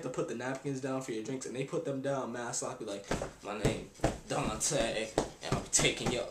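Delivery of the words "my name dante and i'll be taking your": grudging mock waiter; mad upset waiter. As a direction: drag out the greeting, annoyed at the world. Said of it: "like, mad upset".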